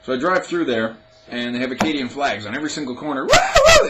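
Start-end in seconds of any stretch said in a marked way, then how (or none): 3.2-3.9 shrill high mocking whoop; loud sarcastic woo-hoo; mock cheer. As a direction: ham up a silly celebration. Mocking flag-waving locals.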